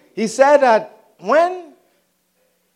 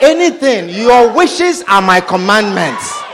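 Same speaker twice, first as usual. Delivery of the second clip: mock devoted suitor. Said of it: "He said".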